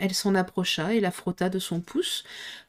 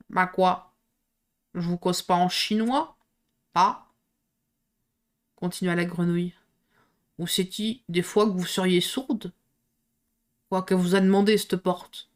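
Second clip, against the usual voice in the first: hoarse frog. Acted. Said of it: "si enrouée".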